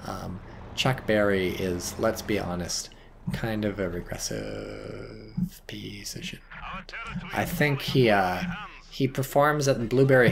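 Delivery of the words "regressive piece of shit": whispering. Real, not acted. Aside insult.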